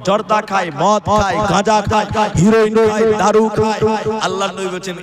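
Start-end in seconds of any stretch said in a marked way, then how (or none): 0.1-3.8 loud, punched, repetitive items; hammering sermon list. Real, not acted. Preacher listing intoxicants to the crowd, hammering delivery. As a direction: hit each vice hard, one by one.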